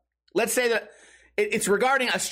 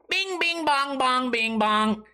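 high mocking sing-song chant; mock two dopey players chanting the bounce; goofy mimicry; 6 semitones higher, much slower than usual. Comic mimicking pool players who echo the bouncing ball, goofy chant.

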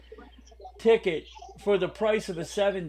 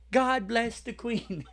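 mock British; 2 semitones higher, slower than usual. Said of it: "Do you wanna do a spot of a podcast today?".

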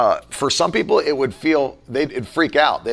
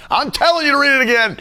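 higher and louder, playfully insisting; hammed-up bossy order to his wife; playful push to read it again; mock bossy command; 10 semitones higher, 3 dB louder than usual.

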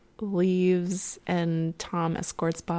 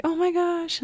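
fan squeal; 11 semitones higher than usual. Retold or imitated. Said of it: "yelling at a performer".

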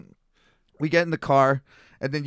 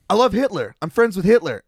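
imitating the proud drunk; 5 semitones higher, 5 dB louder than usual. Drunk declares his views.

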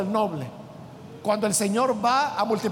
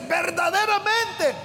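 slow, high, amazed cry of recognition; amazed exclamation; 6 semitones higher, slower than usual. Retold or imitated. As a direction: awestruck preacher voicing Nathanael. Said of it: "él queda sorprendido y le dice".

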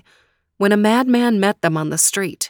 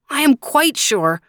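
higher, sorrowful insistence; a sad, raised protest; sadly; 8 semitones higher, 3 dB louder than usual. Acted. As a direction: sure but sad, pitched up. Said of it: "Faraz sadly shook his head".

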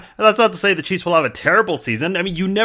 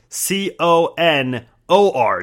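spelling it out; much slower than usual. Shown as a demonstration. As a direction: spell out C O N O R carefully. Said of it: "his first name is spelled".

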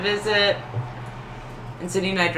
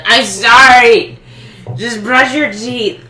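frantic apology; 4 semitones higher, 10 dB louder, much slower than usual. Retold or imitated. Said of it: "She's like".

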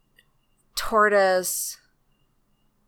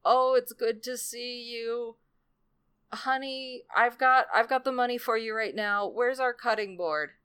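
feigned sickness; 6 semitones higher, 4 dB quieter than usual. Retold or imitated. Tortoise hobbles in to fool Pig, high put-on sickly voice. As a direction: play up being poorly in a high, weak voice.

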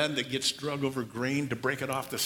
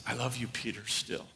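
tender Jesus; 3 semitones lower, 6 dB quieter than usual. Pretend. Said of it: "the look was".

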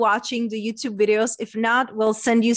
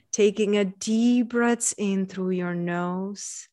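guided visualization. Acted. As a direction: guide them gently into calm.

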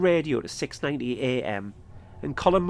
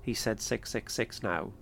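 softly, under the breath, lightly done; a quiet retold aside, a touch lower; under his breath; 3 semitones lower, 6 dB quieter than usual. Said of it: "quietly said under his breath".

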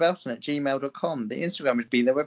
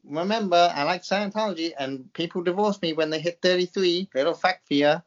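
mock American accent. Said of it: "Listen to my American accent".

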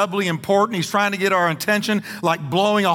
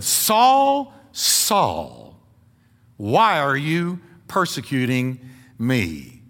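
voice of God; 4 semitones lower, much slower than usual. Acted. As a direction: call him down from heaven. Voicing God to Saul.

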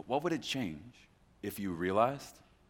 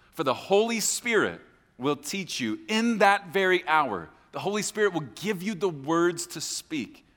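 raised, emphatic scripture delivery; forceful preaching; 3 semitones higher, 6 dB louder than usual. Acted. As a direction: proclaim the verse with pulpit force.

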